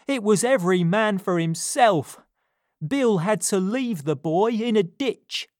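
a hunted man recounting the chase; rough robber. A narrator's reading. Crackit telling Fagin of the failed robbery, gruff.

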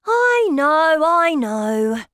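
put-on high, loud child's cry; impatient cry. A narrator's reading. Boy answers grandmother's reassurance, impatient loud cry. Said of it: "I cried".

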